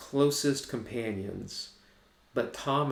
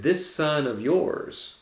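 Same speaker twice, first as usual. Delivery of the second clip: bitter sneer; 4 semitones higher, 4 dB louder, much slower than usual. Acted. Older brother's bitter quote.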